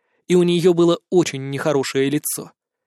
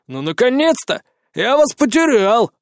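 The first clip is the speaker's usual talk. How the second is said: cheerful greeting; 6 semitones higher, 3 dB louder than usual. Acted. Relieved man greets narrator.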